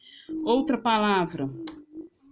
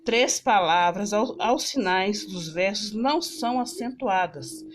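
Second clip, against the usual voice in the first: slow reading; slower than usual. Shown as a demonstration. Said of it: "tá pedindo aqui, olha".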